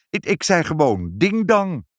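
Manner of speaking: high-pitched nervous excuse; flustered stammering. A narrator's reading. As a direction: stutter at the start, covering up. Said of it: "hakkelde vader".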